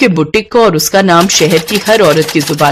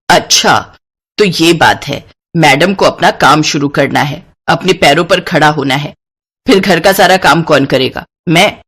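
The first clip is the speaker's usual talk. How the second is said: stern mother-in-law. Acted. Mother-in-law refuses daughter-in-law's boutique, dismissive. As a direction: brush off the bride's dream.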